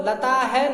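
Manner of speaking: "लता है" with a full hai at the end; wrong visarga. Shown as a demonstration. Teacher showing what not to read, mispronounced demonstration. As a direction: say "लता है" as lataa-hai, the mistaken reading. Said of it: "नहीं पढ़ेंगे".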